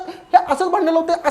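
hammed-up whiny yell of हे असंच भांडणं लावते; mock shout. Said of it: "ही तन्वी ताई वरडायला लागली".

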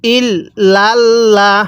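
ইল্লাল্লাহ intoned very slowly, the double l held; teacher modelling ইল্লাল্লাহ for students; slow Quranic recitation. Shown as a demonstration. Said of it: "পড়ুন আমার সাথে".

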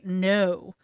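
low, unemotional growl; firm low correction to a dog; low, growly no. Shown as a demonstration. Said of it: "in a low, growly voice".

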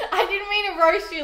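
laughing through the words. Real, not acted. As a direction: giggle while apologising. Laughing apology to food.

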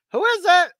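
high squawky parrot asking who's there; a parrot calling through the door. Retold or imitated. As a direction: chirp it out like a talking parrot. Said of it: "and the parrot says".

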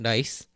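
dice starting with a tap between L and R; merged L-R sound. Shown as a demonstration. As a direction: tap the tongue once to begin dice. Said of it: "saying lice or rice sounds exactly the same".

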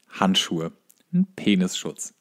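usual speaking voice

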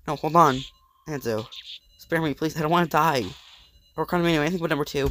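panicked pleading. Acted. Character begging for life.

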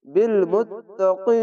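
বিল মুত্তাকিন slowly, stopping on ন; slow recited বিল মুত্তাকিন; madd arid stop. Shown as a demonstration. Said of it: "তিন আলিফ টেনে পড়তে হবে".

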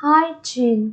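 "Hygiene" with the weight on "Hy"; first-syllable stress. Shown as a demonstration. Teacher repeating a word for students, stress on "Hy" in "Hygiene". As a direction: stress the opening syllable of "Hygiene", "giene" as "jeen". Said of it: "Nhấn âm tiết số một".

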